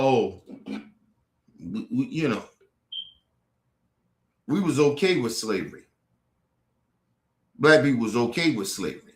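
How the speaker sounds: low, dragged-out mock voice; mocking impression. Mocking those who claim slaves were paid, low sneer. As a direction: parody them, sneering low.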